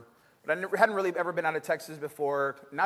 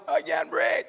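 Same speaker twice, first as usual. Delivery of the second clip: higher, strained voice, gasping out the words; panicked; 12 semitones higher, slower than usual. Retold or imitated. Young student telling his teacher he can't breathe, panicked. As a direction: play the panic of not getting air. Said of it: "I was like".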